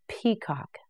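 Peacock whispered, soft and breathy. Shown as a demonstration. Teacher whispering the drill word Peacock to learners.

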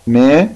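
ما held on a long aa; long alif in ما. Shown as a demonstration. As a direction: draw out the aa of ما. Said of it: "كلمات بيها مد بالألف". (مدّ الألف في ما)

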